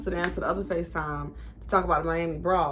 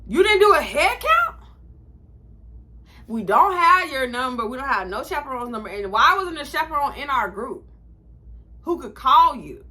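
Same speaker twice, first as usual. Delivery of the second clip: upset; 3 semitones higher, 4 dB louder than usual. Retold or imitated. Scolding the director after being left.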